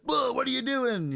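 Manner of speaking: high, loud shocked cry, acted out; alarmed husband. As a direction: imitate a man yelling in sudden alarm. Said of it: "and he's like".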